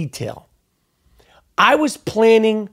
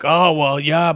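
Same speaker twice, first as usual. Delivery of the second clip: mock hesitation; 6 semitones lower than usual. Mocks friends' hesitant reply.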